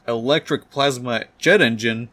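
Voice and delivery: reading out a document, questioning; puzzled reading aloud. Acted. Doc Ock reading the printout, puzzled. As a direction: read it off the page, baffled. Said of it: "He starts reading it and says".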